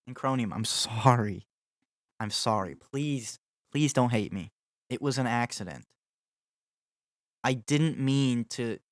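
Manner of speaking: drawn-out, hammed-up begging for forgiveness; mock pleading apology. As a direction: plead like a guilty friend, playfully. Begs viewer's forgiveness after failed run.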